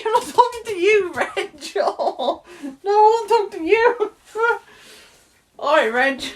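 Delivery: very high, loud, hammed-up squawk; shrieky comic outburst with laughing; mock yelling. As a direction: yell at Reg in a squealing, over-the-top voice. Acted mock shouting at Reg.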